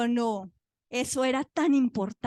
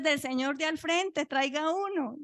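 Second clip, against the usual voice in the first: higher-pitched order to fetch; brisk, raised-pitch request; retold calling out; 5 semitones higher than usual. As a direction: call it across the ward, lightly acted. Staff calling out for a diaper.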